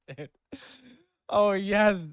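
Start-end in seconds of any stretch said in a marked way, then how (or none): 1.3-2.1 louder start of a character read, abandoned; put-on voice. Streamer reluctant to read dialogue in a voice, tentative put-on voice. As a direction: try out the voice, half-committed. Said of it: "read this in a voice".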